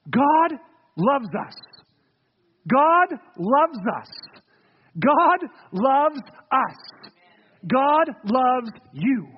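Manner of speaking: slow tender refrain. Real, not acted. Repeated slow sermon refrain.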